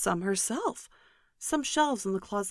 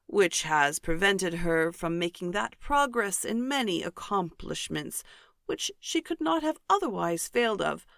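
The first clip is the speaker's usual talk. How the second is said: pompous Mr Collins. Acted. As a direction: puff up each word like a self-important parson. Mr Collins praises Miss de Bourgh.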